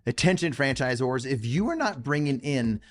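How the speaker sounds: upbeat promo read over music. Acted. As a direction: sell it like a podcast sponsor spot.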